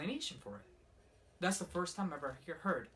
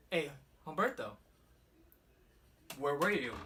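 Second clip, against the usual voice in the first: calling out; 7 dB louder than usual. Retold or imitated. Calling to brother from car window.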